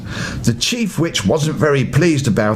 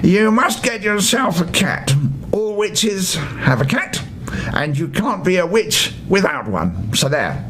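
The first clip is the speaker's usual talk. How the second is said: a higher, bossy witch voice opening a telling-off; stern chief witch; 4 semitones higher than usual. Acted. Chief witch scolding Smaragda, high and bossy. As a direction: scold like the head of all witches. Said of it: "began the chief witch".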